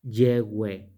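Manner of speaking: "Ye, we" as two clean syllables; faithful pronunciation demo. Shown as a demonstration. Teacher repeating the most correct pronunciation, sounded out. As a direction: say "Ye, we" deliberately, no H. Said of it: "Esa sería su pronunciación más fiel".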